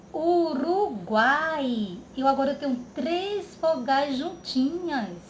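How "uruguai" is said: drawn-out word. Shown as a demonstration. Teacher stretching word for class.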